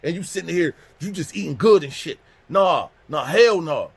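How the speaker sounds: high, loud outraged tirade; angry yelling. Retold or imitated. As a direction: rant at him without letting up, voice pitched high. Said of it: "I don't realize I'm yelling".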